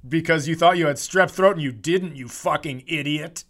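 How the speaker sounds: loud scornful clerk; mock hospital clerk. Hospital clerk berating a patient over strep throat, loud and scornful. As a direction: scold the patient like a contemptuous clerk. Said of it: "they're like".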